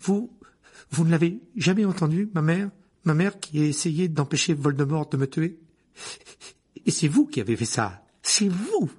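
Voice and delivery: high, loud, rising outrage; trembling anger. Acted. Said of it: "d'une voix qui tremblait de plus en plus".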